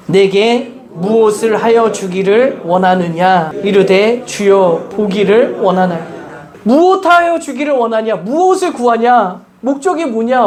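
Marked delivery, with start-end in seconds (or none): 0.1-6.1 measured, solemn Bible reading; scripture reading. Acted. Pastor reading Luke to the church, solemn and measured. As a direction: read the verse aloud to the congregation.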